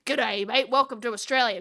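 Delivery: lightly put-on Aussie greeting accent; stereotyped Australian accent. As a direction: play up the Australian twang a touch. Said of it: "what, like, other people think we sound like".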